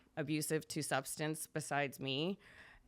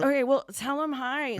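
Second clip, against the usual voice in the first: laughing; 7 semitones higher, 9 dB louder than usual. Retold or imitated. Husband's reply, laughing.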